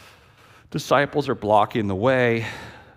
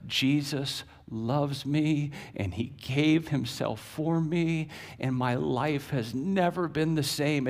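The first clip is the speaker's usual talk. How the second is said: put-on childlike. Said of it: "this intellectual giant, said this".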